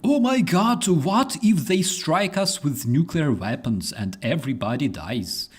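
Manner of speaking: high panicked mock squeal; Joe Rogan squealing.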